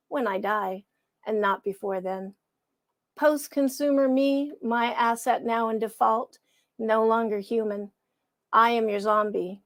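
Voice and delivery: measured, somber poetry reading; poem reading. Acted. Reading her own poem to the livestream audience: somber recitation.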